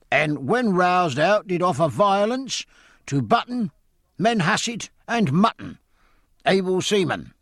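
a master-at-arms reading out charges; hoarse official. Acted. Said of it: "speaking hoarse and official".

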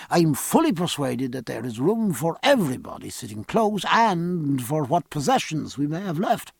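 lightly voiced learned doctor; measured ship's doctor. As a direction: explain carefully, as a modest non-expert.

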